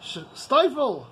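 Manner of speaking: an employer shouting down his staff; angry boss yelling. Retold or imitated. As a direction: bark out the ultimatum. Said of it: "escalate to the point where I tell them".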